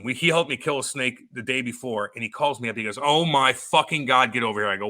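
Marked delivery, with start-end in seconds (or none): 3.0-4.7 urgent retold phone call. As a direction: imitate a neighbor urgently summoning help.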